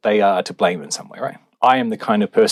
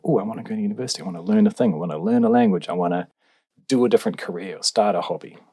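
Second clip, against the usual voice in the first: rising higher with each wish; eager; 3 semitones higher, faster than usual. Retold or imitated. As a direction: rattle off wishes, getting more excited. Imagining eager wishes.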